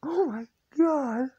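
a high, breathy whispered laugh; breathless laugh. Real, not acted. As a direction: gasp it out while laughing. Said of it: "I am laughing".

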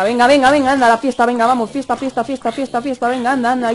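loud, rowdy chant of venga and fiesta; loud cheering. Real, not acted. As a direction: whip up the crowd, loud and rowdy. Cheering mobs to a party.

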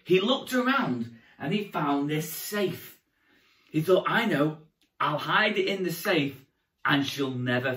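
put-on storytelling to young children; kids party magician. A narrator's reading. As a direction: tell it like a children's entertainer.

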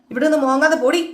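retold shout. Mother-in-law chasing the crying Revathi away, mock shouting. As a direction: snap it out as a retold command to get lost. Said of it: "എന്ന് പറഞ്ഞിട്ട്".

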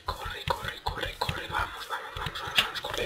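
urgent whisper, nearly silent; cursing under breath. Real, not acted. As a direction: hiss it under your breath, desperate. Whispered urging while fleeing.

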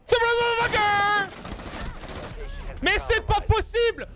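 hurle, furieux et très aigu; cri de rage. Real, not acted. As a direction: explose de frustration. Rage en ratant ses tirs. (cri de rage, lent et aigu)

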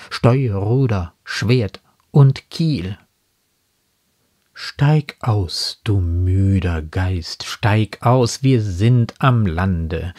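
slow, emphatic declamation of a poem; solemnly paced verse reading, firmly projected; poem recitation. Acted. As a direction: recite with weighty, deliberate phrasing and drawn-out line endings.

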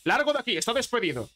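indignant, high-pitched telling-off; furious boss. Acted. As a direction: act out an outraged boss firing someone. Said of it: "se pone cabreadísimo y le mira y le dice".

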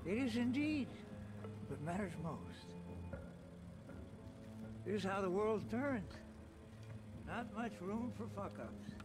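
slow, quiet threat; calm menace. Acted. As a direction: let each word hang, coldly.

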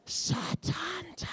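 slow, high stadium announcer cry; drawn-out high stadium call of Satanta; loudspeaker call. Retold or imitated. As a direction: call it out over the tannoy. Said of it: "cried out over the loudspeaker".

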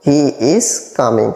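very slow, each word apart; slow teaching repeat. Shown as a demonstration. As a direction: spell it out slowly for learners. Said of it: "teacher repeats slowly". (ধীরে ধীরে শেখানোর ভঙ্গিতে)

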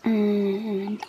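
whispering. Real, not acted. Muttering to self quietly.

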